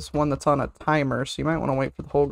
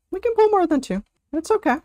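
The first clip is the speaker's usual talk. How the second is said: much higher sing-song take of "We can pull more than two"; high mock voice; 12 semitones higher, faster than usual. Shown as a demonstration. Streamer teasing the group to pull more, high. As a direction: squeak it as a chirpy mock plea. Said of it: "repeated in a new voice".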